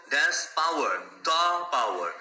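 "the" said as "দা"; "the power" with the short uh vowel; the before consonant. Shown as a demonstration. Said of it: "কারণ পাওয়ারের প sound আসছে".

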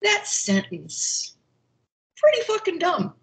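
high-pitched mock verdict on the paper; imitating husband's teasing critique, pitched high; retold joking critique.

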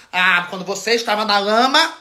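lightly mocked air of obligation; imitated entitlement. Imitating someone who asked for money, mildly entitled. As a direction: quote the plea as if help were owed, rising on lama. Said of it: "um ar de obrigação".

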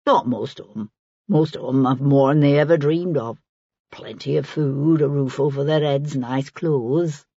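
put-on an earthy old woman in dialect; lightly played working woman, musing; lightly voiced Maggie. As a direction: take your time sizing them up, in dialect. Narrator voices Maggie reflecting.

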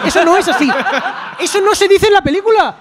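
high, loud playful outrage; indignant joking shout; mock outrage. Real, not acted. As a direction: protest laughing and loud. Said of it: "Pues vete a tomar por culo".

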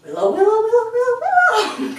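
nagging repeated calls; repetitive calling. Shown as a demonstration. Trainer showing the wrong way to call a dog, repeating the name. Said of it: "We don't go".

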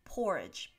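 "Porridge" said alone, falling at the end; a careful, separate "Porridge" for a learner; pronunciation demo. Shown as a demonstration. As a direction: model "Porridge" clearly, stress on the first syllable. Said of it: "this word is pronounced".

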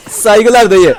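slow, drawn-out laughing send-off; laughing catchphrase. Real, not acted. Gamer saluting a zombie he killed, drawn out laughing. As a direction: stretch it out through a laugh.

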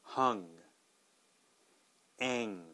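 "Hung" then "ang", H versus none; contrast pair. Shown as a demonstration. Teacher repeats the contrast for learners. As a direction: set "Hung" against "ang". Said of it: "one more time".

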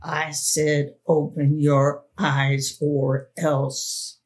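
lightly voiced threatening man, slow; hoarse whisper. The man threatening the frozen girl, slow and menacing. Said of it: "he said in a hoarse whisper".

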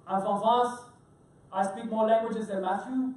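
thick French accent, played loud for laughs; Bruno. Chef introducing himself to a cruise audience, French accent impression. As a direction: put on a hammed-up French accent, projecting strongly. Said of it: "I'm gonna do my Bruno impression".

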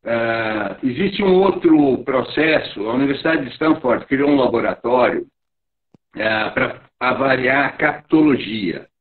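breaking up over a bad call line; choppy connection. Real, not acted. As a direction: voice dropping out, garbled online audio. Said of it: "Tá picotando".

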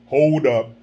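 low, quick "Hold up" like a rapper; rapper impression. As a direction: drop low and say "Hold up" short. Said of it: "What would a rapper say?".

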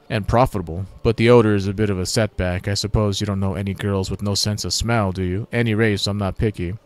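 loud introduction settling into mild pride; lightly voiced dung lugger. Grodd explains his dung trade to human, lightly acted pride. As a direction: announce a humble trade with dignity.

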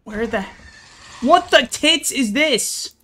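high frantic shouting; desperate scramble in panic; panicked. Real, not acted. Panicked under attack.

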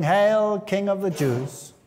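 slow, sneering hail to a mock king. Soldiers mocking Jesus, slow sneering salute. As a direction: jeer it out slowly, mocking the prisoner. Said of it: "So they mocked him, saying".

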